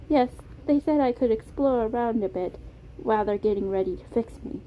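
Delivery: put-on polite British-accented character voice; Beam, British accent. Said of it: "It was a soft British accent".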